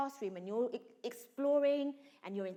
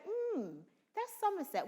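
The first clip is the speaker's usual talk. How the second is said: put-on Somerset accent; 8 semitones higher than usual. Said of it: "Sometimes I might put on a Somerset".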